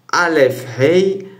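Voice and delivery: aleph puis hey, détachés; lecture lettre par lettre. Shown as a demonstration. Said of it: "Donc, on fait". (épeler aleph et hey pour les élèves)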